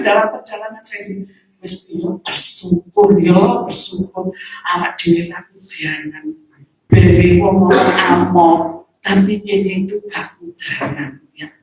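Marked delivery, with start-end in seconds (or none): 1.6-11.2 lightly voiced calm comfort; calm gratitude. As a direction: reassure gently and slowly. Calming, grateful advice.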